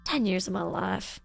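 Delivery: low, weary Southern diner waitress; Waffle House veteran. Acted. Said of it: "do you want me to sound like I've been walking, working at Waffle House".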